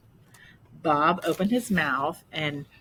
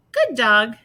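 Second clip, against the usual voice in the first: loud, higher parrot call; 7 semitones higher, 12 dB louder than usual. Acted. Parrot voice from above.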